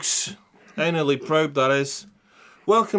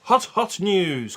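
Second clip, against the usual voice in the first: slow jingle echo; 4 semitones higher, 3 dB louder, much slower than usual. Acted. Repeat of jingle, slower.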